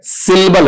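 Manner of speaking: सिलेबल said as two beats, sil-bal; short 'sil', middle vowel dropped in सिलेबल; correct pronunciation. Shown as a demonstration. Teacher giving students the right form, correctly pronounced sil-bal. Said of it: "क्या है?".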